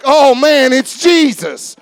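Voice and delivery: "Oh, man, it's Jesus" slowed down, with "Jesus" drawn out in wonder; awed. Shown as a demonstration. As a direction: say it like you can't believe He's here. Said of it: "we should always be like".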